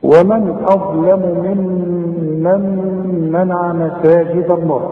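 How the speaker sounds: slow, measured tajweed recitation; Quran recitation. Shown as a demonstration. Teacher recites the verse for the student, measured chant. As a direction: chant the verse slowly with care.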